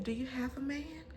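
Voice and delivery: unvoiced whisper. Alicia asking about her man, whispered. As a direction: whisper it like gossip.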